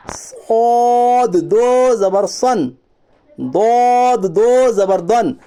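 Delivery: drawn-out, level chant; measured Quran-primer drill, slowly; slow spelling recitation. Shown as a demonstration. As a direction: stretch each long vowel evenly. Drills the letters in recitation style.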